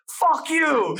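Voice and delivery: very high-pitched mock holler; imitated angry yell. Cyclist yells at a man who shook his head, high mock yell.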